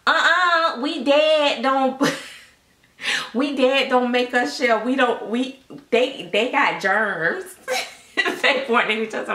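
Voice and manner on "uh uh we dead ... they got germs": mocking bougie kids. Aunt mimicking bougie kids.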